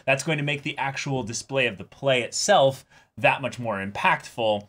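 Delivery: a director rallying his cast, lightly excited. Retold or imitated. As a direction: pump the cast up, all business. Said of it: "And it's like".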